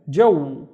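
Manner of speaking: "jaw" set apart slowly with Arabic vowel. Shown as a demonstration. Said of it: "The first syllable is again il".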